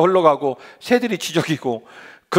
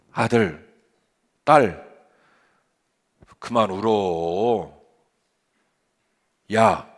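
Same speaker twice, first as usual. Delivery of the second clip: angel comforting gently; 3 semitones lower than usual. Acted. Angel consoling the weeping Elijah, low and gentle.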